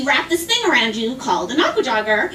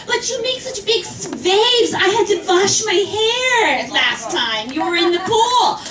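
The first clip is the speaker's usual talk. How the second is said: put-on whiny old woman; 5 semitones higher than usual. Old woman complains about waves.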